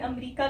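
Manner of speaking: 'अमेरिका' as three-syllable 'am-ree-ka'; wrong pronunciation. Retold or imitated. Teacher tells learners this is wrong, mispronounced 'अमेरिका'. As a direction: show the mistaken long 'ree' in 'अमेरिका'. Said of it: "लेकिन अमेरिका गलत है".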